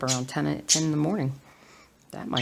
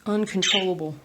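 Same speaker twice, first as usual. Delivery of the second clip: yawning; 4 semitones higher, 3 dB louder than usual. Real, not acted.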